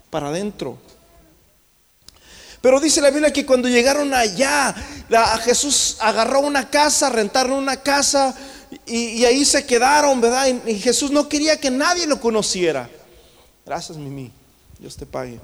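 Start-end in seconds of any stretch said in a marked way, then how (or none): 2.6-12.9 raised, urgent sermon delivery; driving preacher's proclamation; impassioned preaching. Acted. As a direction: preach it out to the congregation. Preaches at full force.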